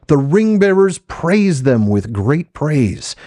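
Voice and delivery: high, ringing proclamation; acclaiming crowd. Acted. Crowd praising the halflings on the field of Cormallen, proclaiming high.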